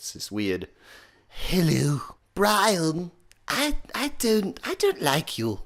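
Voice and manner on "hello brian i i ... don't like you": very high, airy British accent, drawn out. Explaining a voice mix of accent, pitch and breath: breathy, high British voice. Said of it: "a British accent and a nice high-pitched voice, and then just being very breathy with it".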